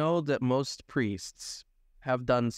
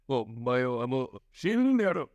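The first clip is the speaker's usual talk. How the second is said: mock anime voice; 2 semitones lower than usual.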